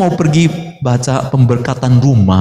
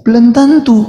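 emphatic; 8 semitones higher, 4 dB louder than usual. Real, not acted. Emphatic answer to own question.

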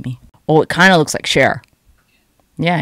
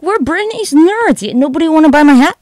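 mocking fans; 10 semitones higher, 6 dB louder than usual. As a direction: squeal it loudly as gushing fans. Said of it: "you guys were all like".

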